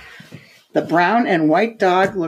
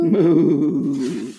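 repeated moo; 3 semitones lower than usual. Shown as a demonstration. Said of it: "Cow says".

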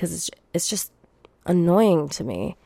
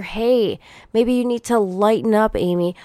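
mocking advice voice; 3 semitones higher than usual.

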